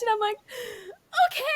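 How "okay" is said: retold tearful nervousness. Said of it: "trying not to cry".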